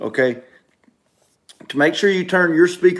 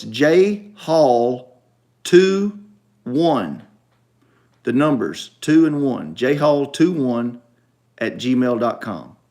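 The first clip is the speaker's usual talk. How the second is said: slow spelling; 3 semitones lower, slower than usual. Real, not acted. Spelling out an email address.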